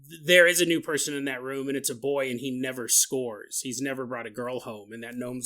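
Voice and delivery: ordinary delivery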